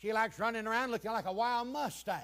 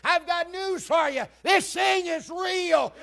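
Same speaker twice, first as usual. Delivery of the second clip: high, loud, drawn-out declaration; shouted preaching; 10 semitones higher, 9 dB louder, slower than usual. Real, not acted. Preacher declaring the news to the congregation, shouted preaching. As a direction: proclaim it at the top of your preaching voice. Same declaration repeated at full force.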